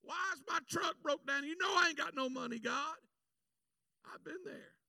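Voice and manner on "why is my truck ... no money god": higher, pleading gripe to God; lightly acted self-pity; whining complaint. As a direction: complain like a broke trucker.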